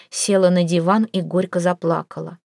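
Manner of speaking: ordinary delivery, nothing marked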